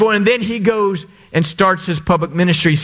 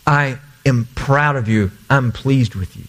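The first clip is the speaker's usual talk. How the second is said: lower, gentle words of pride; tender affirmation; 6 semitones lower than usual. Pretend. Parent telling a child they are proud, tenderly.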